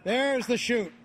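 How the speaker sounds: excited. Real, not acted. Commentator sees parachute open.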